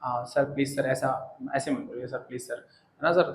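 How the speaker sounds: a soft, slow, mildly pleading student; lightly voiced student politely asking sir not to speak that way. Shown as a demonstration. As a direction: gently beg the teacher, slowly. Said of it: "एक बात रखने का जो तरीका होता है".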